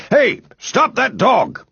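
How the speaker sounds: high, drawn-out alarmed yell. A narrator's reading. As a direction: yell out to stop a thief of a dog. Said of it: "he yelled".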